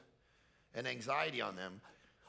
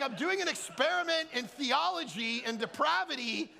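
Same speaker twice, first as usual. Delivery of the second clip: laughing explanation; 9 semitones higher, 4 dB louder than usual. Retold or imitated.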